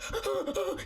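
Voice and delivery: rapid panicked gasping; freaked-out gasps. Retold or imitated. Brother opening the door, freaked-out gasps. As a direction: gasp in mock panic. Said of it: "freaking out".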